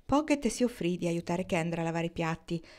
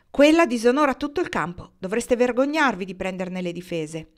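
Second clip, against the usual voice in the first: higher, louder furious scolding; furious accusation; 4 semitones higher, 7 dB louder than usual. A narrator's reading. Mrs Posey berates Kendra over Marnie, furious. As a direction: spit it out with blazing anger. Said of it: "Con occhi fiammeggianti d'ira disse".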